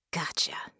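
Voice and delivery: soft, under-the-breath aside; muttered. Acted. Bella finds the mind's pictures, muttering to herself. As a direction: say it quietly to oneself. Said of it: "she muttered".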